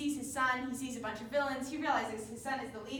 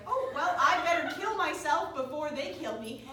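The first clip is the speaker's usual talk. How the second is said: loud, raised, hammed-up desperation; mock panic; 4 semitones higher, 7 dB louder than usual. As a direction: act out a comically rash decision in alarm. Villain's comic panicked resolve.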